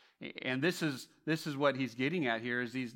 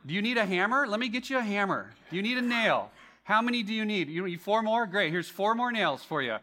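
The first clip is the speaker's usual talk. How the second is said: eager encourager; 5 semitones higher than usual. Retold or imitated. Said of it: "I was like the encourager guy".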